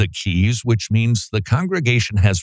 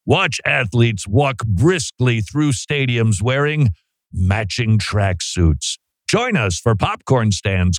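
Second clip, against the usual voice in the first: over-the-top hype announcer read; sports announcer hype. Acted. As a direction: sell it like a big sports promo. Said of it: "it says announcer over the top sports hype tone".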